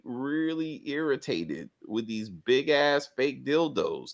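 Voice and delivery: real irritation, slow and drawn out; irritated. Real, not acted. Host griping to co-host about fake show props, irritated. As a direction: draw the words out in slow exasperation. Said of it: "I'm getting really, really irritated".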